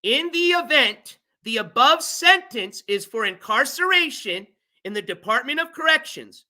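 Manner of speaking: measured pace with spaces between phrases; slow, deliberate reading. Real, not acted. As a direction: read the legal wording slowly. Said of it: "gonna read this slowly".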